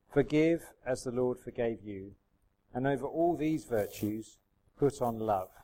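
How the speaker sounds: measured, emphatic reading aloud; scripture reading. Real, not acted. Pastor reads Colossians to his church, measured scripture reading. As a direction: read scripture to a congregation, weighing each phrase.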